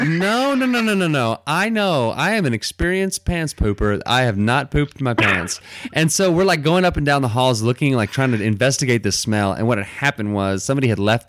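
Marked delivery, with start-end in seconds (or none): 0.0-5.6 higher, insistent no no no; emphatic denial. Retold or imitated. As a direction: protest it eagerly, pitch up. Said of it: "And I'm like".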